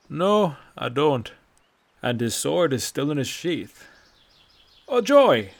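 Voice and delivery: loud, slow start, ends in a mock-delighted whoop; dry old man, then a sudden sarcastic cheer; sarcastic old Nord. Bracknell's sarcastic reply.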